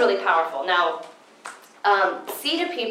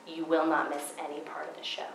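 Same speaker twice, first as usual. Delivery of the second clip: whispered retelling; 4 semitones lower, 10 dB quieter than usual. Retold or imitated. Retelling the planetarium guide's answer to the audience, in a whisper. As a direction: whisper the guide's words like a secret.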